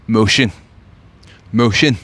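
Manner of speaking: punchy loud boast; loud brag. Acted. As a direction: bark the word out proudly. Loud one-word brag.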